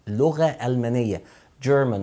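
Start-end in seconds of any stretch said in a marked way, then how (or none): 1.6-2.0 "German" opening on a light d before the j; light initial d. Shown as a demonstration. Teacher modelling the subject name, "German" with light d. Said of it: "ولازم يبقى في دي خفيفة في الأول".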